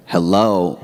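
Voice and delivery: mildly emphatic imitated text; all-caps text. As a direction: voice an all-caps text, not quite shouting. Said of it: "all caps".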